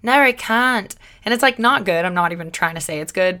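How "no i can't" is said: bad Australian accent. Shown as a demonstration. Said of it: "this weird Australian accent".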